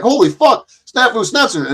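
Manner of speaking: high-pitched retold shock; startled. Recalling seeing his stalker in the chat, startled. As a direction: replay spotting someone you dread.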